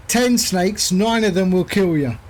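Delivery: lightly badly faked Australian accent. Pilot repeating his snake joke, bad Australian accent. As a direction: attempt a poor Aussie accent. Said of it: "That's my Australian accent".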